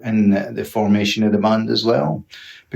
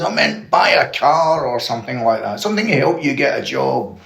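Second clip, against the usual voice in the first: raised-pitch exasperation, not shouted; mock outrage; 4 semitones higher than usual. Dad telling sons what money was for, mildly outraged. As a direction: imitate an indignant dad correcting his sons. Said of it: "he was outraged".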